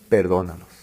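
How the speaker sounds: perdónalos dicho muy bajo y suave; súplica susurrada. Acted. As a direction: ruega en voz baja, casi sin aire. Cita de Jesús, muy baja. (súplica en voz muy baja)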